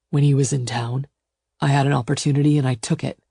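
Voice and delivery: lightly voiced, unapologetic lover; matter-of-fact male suitor. Suitor explains asking her dad, matter-of-fact. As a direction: explain it without apology. Gideon's voice.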